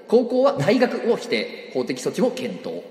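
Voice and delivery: slow, high news headline read. Acted. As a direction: announce it like a news ticker. Reading headline news-style.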